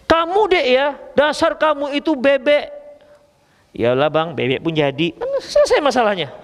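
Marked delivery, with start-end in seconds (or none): 0.1-2.7 a lightly voiced husband teasing his wife, raised; husband calls wife a duck, higher and slower; mock husband snapping. Preacher voices husband mocking wife, half-joking. 3.8-5.1 a lightly voiced wife giving in, lower; mock-meek reply, pitched down. Preacher voices wife calmly accepting the insult, meek.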